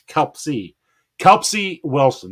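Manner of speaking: KELP-see, with the P and S sounded together; Kelpsy said carefully as two clear syllables; careful pronunciation. Real, not acted. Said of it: "I said it".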